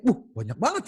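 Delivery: husband stunned by a chest of gold; amazed gasp. Acted. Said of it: "sama istrinya kaget".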